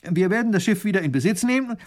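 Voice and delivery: a hint of an indignant baron; heated. A narrator's reading. Baron flares up at the captain, mildly heated. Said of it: "ereifert sich".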